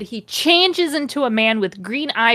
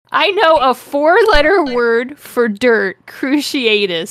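higher, louder hammed-up battle cry; mock scream; 4 semitones higher, 4 dB louder than usual. Reading Harry's curse at Draco's car, mock scream. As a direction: call it out big, then draw out the spell. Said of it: "screamed Harry".

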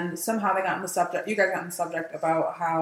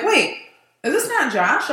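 retold confusion; 7 semitones higher, 4 dB louder, slower than usual. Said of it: "And then I'm like".

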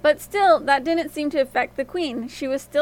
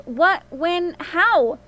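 alarmed questions; 4 semitones higher, 4 dB louder, much slower than usual. A narrator's reading. Queen reacting to prophecy.

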